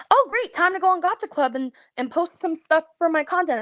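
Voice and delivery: high, quick mock cheer; sarcastic. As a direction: fake enthusiasm, sarcastically bright. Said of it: "I'm like".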